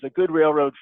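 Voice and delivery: "good" is the most prominent word; stress on GOOD. Real, not acted. Explaining why players enjoy a railroad, stress on "good". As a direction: put the weight firmly on "good". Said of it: "I put the stress on the word good".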